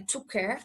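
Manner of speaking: "Took care" run together on one k; linked sounds. Shown as a demonstration. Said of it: "aí emenda o som aí".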